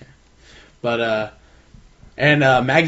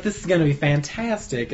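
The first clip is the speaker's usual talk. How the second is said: a hint of put-on Southern belle; Southern belle accent; 4 dB quieter than usual. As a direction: imitate a gushing Southern belle, softly. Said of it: "hold-on Southern Belle kind of accent".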